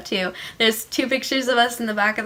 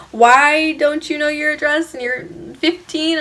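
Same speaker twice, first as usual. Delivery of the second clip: incredulous questioning; 5 semitones higher, 3 dB louder than usual. Retold or imitated. Cop questioning a fifteen-year-old about the address, incredulous.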